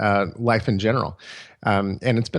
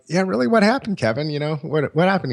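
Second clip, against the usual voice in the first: eager curiosity; 5 semitones higher than usual. Retold or imitated. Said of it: "And we're like".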